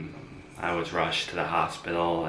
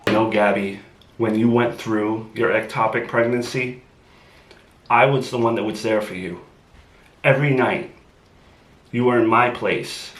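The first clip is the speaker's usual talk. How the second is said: raised, insistent complaint; loud indignant protest; 3 semitones higher, 5 dB louder than usual. Acted. Boyfriend reminding Gabby he was there for her, loud and indignant. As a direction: make her hear what he did for her. Boyfriend arguing back loudly.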